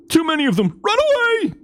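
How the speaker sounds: high, panicked cry to flee; squeaky panicked voice. Acted. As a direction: shriek it like a fleeing coward. Character fleeing in panic.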